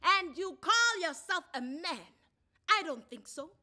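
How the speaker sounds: angry wife shouting at her ex in court; loud scornful. A narrator's reading. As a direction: lash out at him in public scorn. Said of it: "Thuli said out loud".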